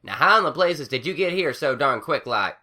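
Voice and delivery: startled and suspicious; surprised country mare; surprised farm mare. A narrator's reading. Applejack figure voice.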